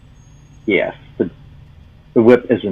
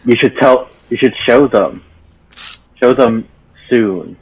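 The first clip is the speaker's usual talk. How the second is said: eager urging; 4 semitones higher than usual. Acted. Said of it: "and suggests".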